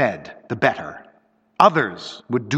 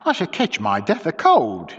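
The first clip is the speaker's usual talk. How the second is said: grumbling; 4 semitones higher than usual. Acted. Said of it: "she grumbled".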